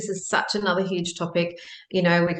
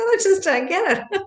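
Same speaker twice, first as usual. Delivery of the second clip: high, loud, laughing quote; 13 semitones higher, 5 dB louder than usual. Retold or imitated. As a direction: break into laughter on the words. Laughing at husband's reaction.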